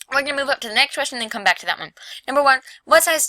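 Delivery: talking while chewing gum; words around a wad of gum. Real, not acted. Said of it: "sorry, I have gum".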